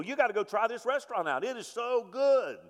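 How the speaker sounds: high-pitched gushing, stretched at the end; enthusiastic recommending. Acted. Telling people about a good restaurant, excited gushing. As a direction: rave about it, voice lifted high.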